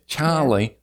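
mimicked nasal Australian vowels; imitated Australian accent. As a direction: say the name as an Australian might. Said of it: "That's what I hear".

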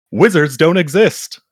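high, rising, fighting back a laugh; "Wizards don't exist" said high and rising, laugh bursting through; about to crack up. Real, not acted. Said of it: "I told myself I was gonna get through that line without laughing".

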